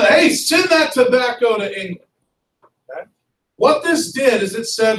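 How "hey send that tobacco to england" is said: mild shouted order; half-hearted yell across a field; mock yell. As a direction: call it out like a bossy official. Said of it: "And he's yelling".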